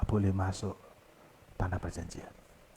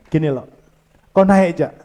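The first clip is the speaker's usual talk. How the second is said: God speaking; 6 semitones higher, 5 dB louder than usual. Retold or imitated. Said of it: "Lalu Tuhan berkata ini".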